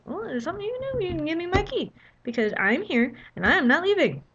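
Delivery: fast, firm, stubborn; fed-up insistence. Retold or imitated. Worn-out guest demanding her key, firm. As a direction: plant your feet and refuse. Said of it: "I just had lost it".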